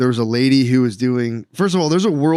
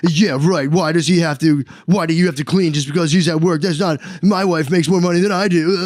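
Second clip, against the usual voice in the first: higher-pitched mocking protest; mock indignant commenter; 5 semitones higher than usual. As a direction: imitate an outraged internet commenter. Mimics indignant men in comments.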